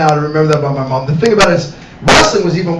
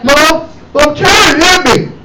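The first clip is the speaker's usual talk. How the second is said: put-on whiny tattling kid; 8 semitones higher, slower than usual. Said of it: "I go tell on mom".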